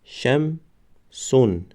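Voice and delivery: "قمرون" drawn out syllable by syllable; slow demo word. Shown as a demonstration. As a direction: stretch "قمرون" slowly for the class. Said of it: "دیگرش". ("قمرون" آهسته و کشیده برای شاگردان)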